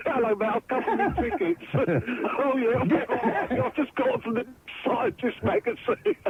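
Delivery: imagined quote through laughter; mock airport chat. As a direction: act it out while giggling. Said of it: "Can you imagine turning up at the airport?".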